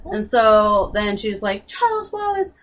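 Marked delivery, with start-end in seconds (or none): 1.6-2.5 high, loud, gushing love cry; mock-dramatic love speech to Charles Wallace; hammed-up declaration of love. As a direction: overdo a sister's devotion. Meg declaring love to brother.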